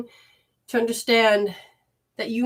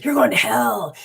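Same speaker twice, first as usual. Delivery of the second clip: mock outraged voice, half whispered; a lightly voiced scolding critic; imitating an accuser. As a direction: mimic the person who scolded her. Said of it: "started blasting me going".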